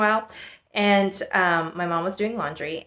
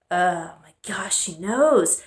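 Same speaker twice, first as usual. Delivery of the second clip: whispered, alarmed inner thought; whispered panic; slower than usual. Retold or imitated. Girl realizing her mom knows, whispering. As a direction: breathe it out as a secret realization. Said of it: "And I'm like".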